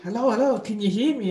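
imitating a nagging inner voice; pushy. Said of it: "prominent, more pushy".

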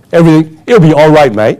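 light mock Australian accent, easygoing; Australian saying. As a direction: toss it off like a laid-back Aussie. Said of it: "the typical saying in Australia".

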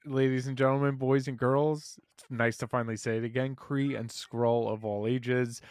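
grand announcer welcome; booming kids show opener. Shown as a demonstration. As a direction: address the crowd like a ringmaster. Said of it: "do your intro".

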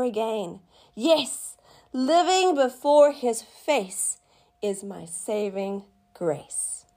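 slow, deliberate scripture reading. Acted. Reading Psalm forty-two to viewers, slow and deliberate. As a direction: read the psalm slowly, letting each line land. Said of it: "in the Passion says".

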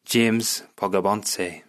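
slow, lightly Italian-accented name; put-on Italian accent. Shown as a demonstration. Trying an Italian town as surname, Italian accent. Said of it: "I'm sorry for the accent".

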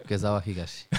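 Kezawa Higashi said like a Japanese surname and first name; Japanese-style reading. Shown as a demonstration. Host repeating the classmate's misreading, Kezawa Higashi in Japanese style. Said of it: "si lo dices así parece japonés".

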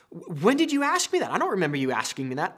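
high-pitched protest, then rapid denial; defensive protest. Acted. Husband to livid wife about forgotten errand, defensive. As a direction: argue back in mock bewilderment.

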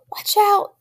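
wife screaming as lions charge. A narrator's reading. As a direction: shriek a warning at the charging lions. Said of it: "screamed Lydia".

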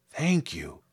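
soft-ish, lightly voiced grateful scarecrow; simple understated thanks. A narrator's reading. Scarecrow thanks girl for offering help, grateful. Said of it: "he answered gratefully".

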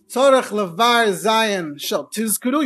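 "Tizkuru" with a firm, strongly voiced z; slow, careful recitation that leans on the z of "Tizkuru"; strong zayin. Shown as a demonstration. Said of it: "you have to say the Zayin strong".

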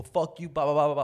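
hammed-up angry New Yorker yelling; mock New York rant. Guy who can't find parking, mock yelling at drivers. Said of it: "all that New York shit".

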